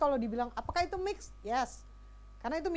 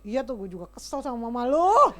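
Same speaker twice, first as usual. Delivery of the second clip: mock dad, laughing; 3 semitones lower, 8 dB louder than usual. Imitating father siding with child.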